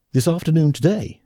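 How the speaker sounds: can't believe the timing; shocked. A narrator's reading. Smith shocked at leaving this afternoon.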